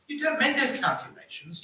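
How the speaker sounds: ordinary talk, nothing marked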